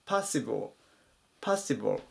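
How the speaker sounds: パッシブル as "PAH-si-bo", dark final l; パッシブル modelled as English possible, stressed first syllable; careful English pronunciation. Shown as a demonstration. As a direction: say パッシブル twice with an open "pah". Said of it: "発音に注意ですね".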